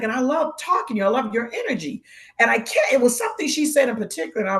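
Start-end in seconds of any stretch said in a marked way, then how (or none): 0.0-2.0 higher, gushing enthusiasm; admiring compliment. Retold or imitated. Lady in the store praising her, gushing. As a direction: imitate a friendly stranger's effusive praise. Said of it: "she's like".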